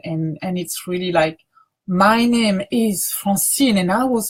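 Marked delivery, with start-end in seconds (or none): 1.9-4.3 put-on storytelling to children. Shown as a demonstration. Teacher showing students a child's-story telling. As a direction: tell your name like an exciting adventure. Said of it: "as if you were talking to children".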